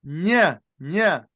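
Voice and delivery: Ña with the nasal ny sound, said twice. Shown as a demonstration. Teacher models the ñ sound for the class. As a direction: press out the ñ of Ña. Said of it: "That's the sound".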